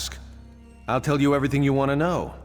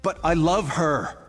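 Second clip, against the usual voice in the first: desperate plea; 7 semitones higher, 4 dB louder than usual. Acted. Pleading for his wife.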